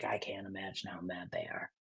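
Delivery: hushed whisper aside. Real, not acted. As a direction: drop to a whisper. Aside about trolled people's anger.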